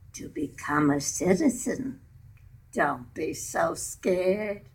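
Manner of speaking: a hint of an impatient teenager hurrying Mama; lightly voiced teen, nudging her out the door; teenage voice. Teenager urging Mama to go register, lightly voiced. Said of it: "you'll hear my teenage voice".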